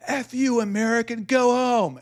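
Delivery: high mock yell at the American; angry Canadian guy. Hick in line yelling at the American driver, mock angry high yell. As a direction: imitate the hick shouting him off. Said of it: "And the guy's like".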